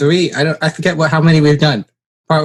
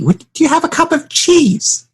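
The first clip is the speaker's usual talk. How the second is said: mock disbelief. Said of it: "I was like, "What?".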